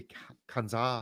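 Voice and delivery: Kansas said the French way; French accent. Shown as a demonstration. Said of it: "can you make Kansas sound French?".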